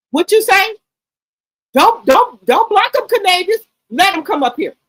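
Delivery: loud call-out; rally the viewers loudly; loud hype. Real, not acted. Streamer rallying viewers to join the live, loud.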